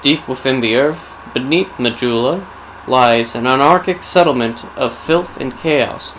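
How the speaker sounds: measured storyteller intoning dark history; solemn game-lore prologue read; dramatic lore narration. A narrator's reading. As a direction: narrate a grim legend with deliberate pauses. Returns to scripted lore narration.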